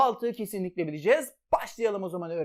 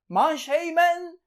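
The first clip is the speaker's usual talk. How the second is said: "Manşeymen" slow, high and loud, syllables stretched; drawn-out code word; 7 semitones higher, 5 dB louder, much slower than usual. Shown as a demonstration. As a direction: sing out the memory word. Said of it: "recap of code".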